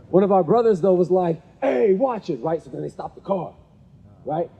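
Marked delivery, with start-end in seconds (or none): 1.6-2.4 imitated warning call. Brother calls out after the car.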